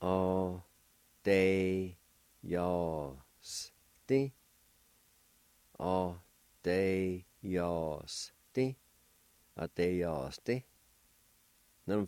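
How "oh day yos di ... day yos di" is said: "Day, yos, di" as three separate syllables; slow syllable drill. Shown as a demonstration. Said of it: "It's pronounced like this".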